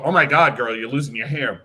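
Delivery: loud, tactless gasp at the client; blunt exclamation. Shown as a demonstration. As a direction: blurt it out without care. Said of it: "Don't ever go".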